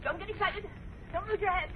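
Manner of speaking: agitated attempt at calming others; excited, flustered reassurance. Professor telling passengers not to lose their heads, flustered and excited. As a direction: urge calm while getting worked up yourself. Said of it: "what are you so excited for".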